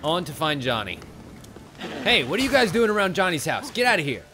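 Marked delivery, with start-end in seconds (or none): 2.0-3.7 raised, higher yell to scare them off; shouting at monsters. Real, not acted. Player yelling at monsters to get away. Shooing monsters from Johnny's house. 3.7-4.2 higher, raised get-out-of-here; shooing. Real, not acted. Player chasing drowners away, shouting.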